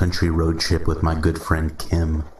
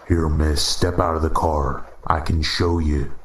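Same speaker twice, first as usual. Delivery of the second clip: Midwestern drawl. Acted. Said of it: "he said in a Midwestern drawl".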